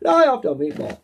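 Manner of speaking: rough mock Italian accent, dropping off; amateur Italian accent tag line. Shown as a demonstration. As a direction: toss off a half-hearted Italian accent. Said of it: "the best I can do with Italian".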